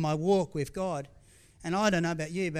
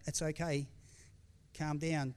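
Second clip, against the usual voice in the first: softer, gentle reassurance; soothing reassurance; 2 semitones lower, 8 dB quieter, slower than usual. Retold or imitated. God steadying the preacher with a touch, soothing. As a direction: imitate a calming word, softly. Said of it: "just his touch on my shoulder".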